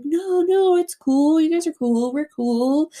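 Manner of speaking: high, breezy mock placating; placating backpedal. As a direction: imitate someone hastily smoothing things over. Acted backpedalling when confronted.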